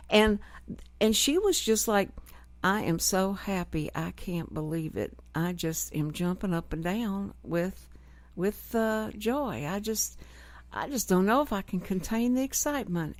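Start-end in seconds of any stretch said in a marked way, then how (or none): 2.6-13.2 a flat, emotionless mock of joy; deadpan monotone. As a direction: say the happy words with zero feeling. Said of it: "that's how she would talk about everything".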